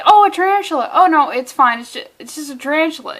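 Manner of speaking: loud, high start, then settling; hammed-up reassurance; mock reaction. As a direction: act out a startled then dismissive bystander. Acting out conditioned reaction.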